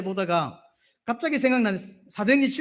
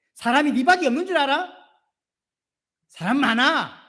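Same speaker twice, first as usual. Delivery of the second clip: mock angry God; 6 semitones higher, 4 dB louder than usual. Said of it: "이래야 되는데".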